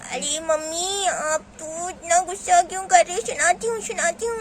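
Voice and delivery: put-on childish, lisping protest; whining little girl. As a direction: whine back at a cross mother. Child protests mother's anger. (रिरियाती तुतलाती बच्ची)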